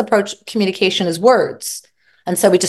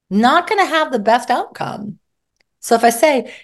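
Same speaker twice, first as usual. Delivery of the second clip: ordinary talk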